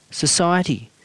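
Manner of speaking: wife unsure of her own answer, tentatively; uncertain. Acted. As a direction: offer the word as if unsure it's right. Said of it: "said Hazel uncertainly".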